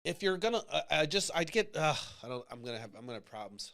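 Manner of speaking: real struggle to hold back emotion, voice sinking away; halting and overcome, fading as words fail; emotional. Real, not acted. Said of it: "I get emotional when I think".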